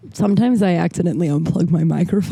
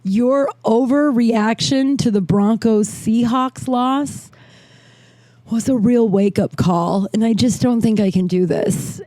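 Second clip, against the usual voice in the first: quoting his text; 3 semitones higher, slower than usual. Retold or imitated. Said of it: "He said, quote".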